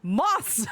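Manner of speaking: Moths with a clear th; Moths, careful on the th; moths again. Shown as a demonstration. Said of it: "damn this accent".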